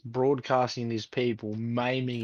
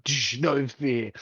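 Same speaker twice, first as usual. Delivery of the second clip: mock ad slogan; much slower than usual. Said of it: "And it's like".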